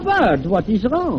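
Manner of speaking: put-on French accent. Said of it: "talking like this with a French accent".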